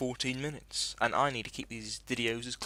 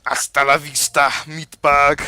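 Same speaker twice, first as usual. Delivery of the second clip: loud, higher, put-on killer-robot voice; robot villain gloat; 4 semitones higher, 17 dB louder than usual. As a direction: gloat over the wreck like a movie killer robot. Gloating at destroyed enemy.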